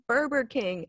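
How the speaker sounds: "Burger King" said as "Burber King"; childhood mispronunciation. Retold or imitated. Retelling her own childhood mistake, "Burger" as "Burber". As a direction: swap the g in "Burger" for a b, no rolled R. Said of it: "so I called it Burger King".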